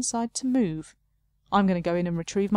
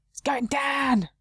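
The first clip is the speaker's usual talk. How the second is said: whisper; 6 semitones higher, much slower than usual. Acted. Arguing with bridge keeper.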